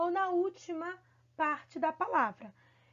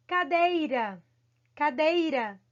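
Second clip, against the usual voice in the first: "Cadeira" with DEI punched louder; stressed middle syllable; 4 dB louder, slower than usual. Shown as a demonstration. Teacher showing pupils the strong syllable, stressed. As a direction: lean firmly on the DEI of "Cadeira". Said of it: "a sílaba forte dela é aonde?".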